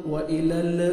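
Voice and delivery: "व इलल" with lax, blurred vowels; majhul mistake. Retold or imitated. Teacher imitating untrained reciters, blurred majhul "व इलल". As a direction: say "व इलल" with indistinct short vowels. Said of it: "मजहूल पढ़ते हैं".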